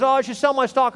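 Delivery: high-pitched imitation of a worried investor; mock panic. Preacher mimics everyone wanting to sell stock, in mock panic. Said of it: "in panic, when everyone says".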